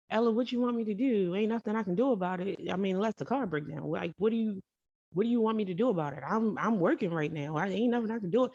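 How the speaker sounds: a hammed-up grumpy husband on the phone; mock irritated rant. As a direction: rattle it off like a fed-up partner brushing her off. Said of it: "he goes into this fit on the phone".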